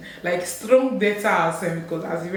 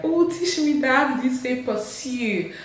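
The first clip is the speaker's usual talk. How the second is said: higher, slow, eager voice; higher mock-eager learner; eager imitation; 5 semitones higher than usual. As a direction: playfully beg to be taught.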